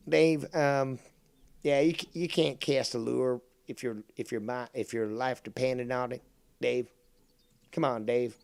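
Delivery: lightly voiced Wire needling Dave; a hint of Wire's nagging friend voice; Wire impression. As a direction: tease Dave the way Wire would, only a touch put on. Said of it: "That's how, uh, Wire would say".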